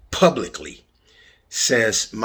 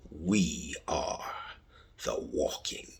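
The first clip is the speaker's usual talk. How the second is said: softer, hushed announcement of the title; dramatic whisper; 6 semitones lower, 10 dB quieter, slower than usual. Acted. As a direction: whisper it like a secret intro.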